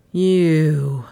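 understated fury on one word; a touch of fury, held back; mildly furious start. A narrator's reading. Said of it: "he began in a furious voice".

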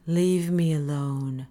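slow weary plea; pleading. Acted. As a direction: push him off, worn down. Parisi shoves him away.

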